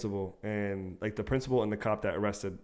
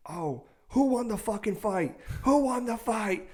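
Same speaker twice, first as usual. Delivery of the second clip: high, slow mock mom voice; hammed-up high mother voice; mom demanding; 11 semitones higher, slower than usual. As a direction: imitate an angry mother demanding answers. Mom confronting son by car.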